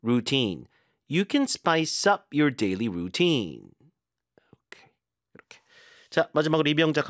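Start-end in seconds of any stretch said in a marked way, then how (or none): 0.0-0.7 "routine" said rou-TINE, falling at the end; crisp model of "routine", end-stressed; stress on second syllable. Shown as a demonstration. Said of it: "뒤쪽에 주고". 1.1-3.7 slow model sentence, UP and rou-TINE stressed; deliberate read, weight on "up" and the end of "routine"; teacher's slow drill sentence; stress demo. Shown as a demonstration. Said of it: "뒤쪽에 주고".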